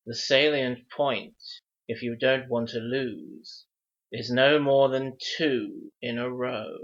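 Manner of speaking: measured, rhythmic verse recital; reciting a riddle. Acted. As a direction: read it like an old riddle in rhyme. Wizard repeats riddle in verse.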